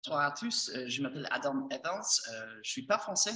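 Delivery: American speaking French; French with an American accent; foreign accent in french. Real, not acted. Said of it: "je suis désolé si mon français c'est pas le mieux".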